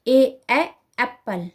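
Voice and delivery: ए ए then एप्पल, teacher-style; slow classroom drill of ए ए एप्पल; phonics drill. Shown as a demonstration. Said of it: "उन्हें ए, ए, एप्पल इस तरीके से पढ़ाया जाता है". (बच्चों को सिखाने वाला फोनिक अभ्यास)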